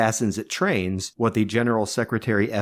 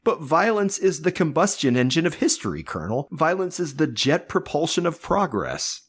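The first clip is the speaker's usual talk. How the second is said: fervent; 6 semitones higher than usual. Acted. Dictator's fervent ideological outburst.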